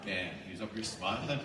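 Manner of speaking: ordinary talk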